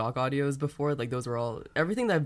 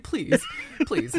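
submissive pleading; 10 semitones higher than usual. Retold or imitated. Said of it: "Say submissive".

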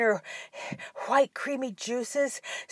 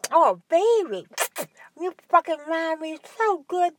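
moaning; 5 semitones higher, 3 dB louder than usual. Acted. Mother character speaking during sex.

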